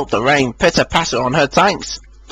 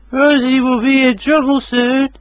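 cross Toby; 10 semitones higher than usual. A narrator's reading. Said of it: "He was cross".

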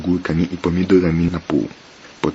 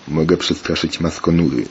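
usual speaking voice

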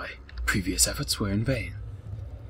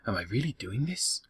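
mock story narration.

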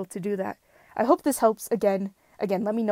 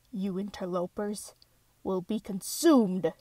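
menacing villain line; slower than usual. Acted. Voice actor reading villain line.

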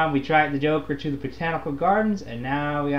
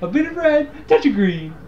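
high, louder mock villain sing-out; Joker; 10 semitones higher, 4 dB louder than usual. Gamer imitates the line he constantly hears, mocking villain voice. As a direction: mimic a maddening game villain's repeated line. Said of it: "you constantly hear the Joker go".

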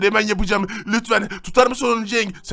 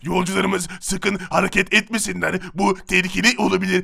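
siren announcement. Acted. Siren head repeating announcements.

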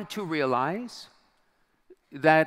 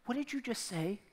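high, much softer near-whisper; hushed, stunned question, barely voiced; soft and high, as if she can hardly believe it; almost whispered; 8 semitones higher, 9 dB quieter than usual. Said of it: "she almost whispered".

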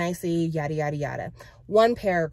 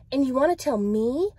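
higher-pitched questioning; puzzled, raised-pitch question; genuinely curious; 6 semitones higher, 4 dB louder than usual. A narrator's reading. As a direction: ask with honest curiosity. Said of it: "genuinely curious".

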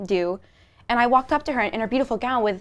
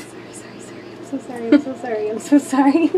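distressed apology. Real, not acted. Apologises for hurting someone.

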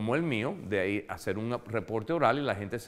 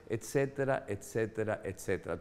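fading etcetera; 2 semitones lower, 7 dB quieter than usual. Real, not acted. Trailing list of excuses.

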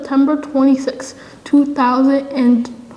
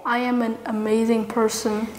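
soft, calm affirmation to repeat; quiet affirmation; 6 dB quieter than usual. Shown as a demonstration. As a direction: say it gently for them to echo. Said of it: "Repeat after me".

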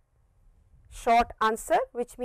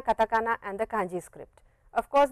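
ordinary delivery

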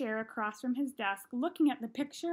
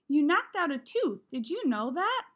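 stern; 4 semitones higher, 6 dB louder than usual. A narrator's reading. Principal stern about tooth.

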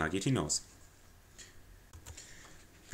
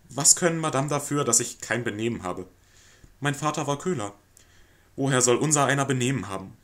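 louder, woeful hard-luck plea; milk his poor childhood for pity; self-pitying lodger; 3 semitones higher, 4 dB louder than usual. Acted. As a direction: lodger laying on the sob story to the lady.

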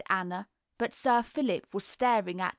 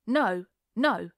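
a sharp, louder no, no; said sharply; 4 dB louder than usual. A narrator's reading. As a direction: cut her off sharply. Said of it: "he said sharply".

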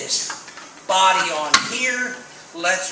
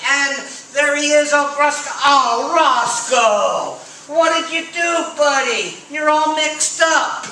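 surprised; 5 semitones higher, 5 dB louder than usual. Acted. Surprised at the mixed-up rabbit.

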